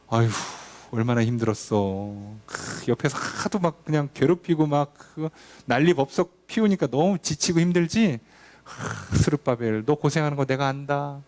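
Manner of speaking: slow, syrupy pity, gently mocked; mock coddling comfort. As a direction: coo over him like a fussing mother. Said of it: "이렇게 위로 절대 안 하세요".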